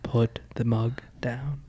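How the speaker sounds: slow whispered cop order; whispered police command. Pretend. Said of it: "You sound like a police officer".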